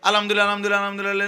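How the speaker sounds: আলহামদুলিল্লাহ rattled off fast and slurred; mock rapid-fire recitation, shown as wrong; like a machine. Shown as a demonstration. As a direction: imitate a hurried machine reciting. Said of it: "এরকম মেশিনের মতো না".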